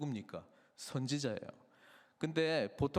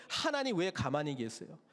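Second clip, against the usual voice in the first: plaintive complaint; 5 semitones higher than usual. Acted. Voicing complaint to God.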